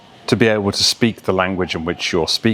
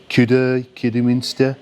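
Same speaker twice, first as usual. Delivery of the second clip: higher Black Country accent on the town name; 4 semitones higher than usual. Shown as a demonstration. Coach giving a Black Country accent example. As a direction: say Kidderminster like a Black Country local. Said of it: "you've got the Black Country accent".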